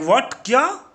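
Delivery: loud, high outraged "What"; outraged shout. Acted. Boss is outraged that the crew doubts him, loud and high. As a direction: bark it out in outrage.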